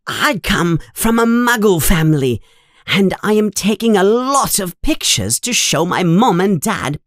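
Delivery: high-pitched, gushing little fan; Colin Creevey, very excited. A narrator's reading. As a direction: pour it out excitedly to your hero. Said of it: "Colin is talking very excitedly".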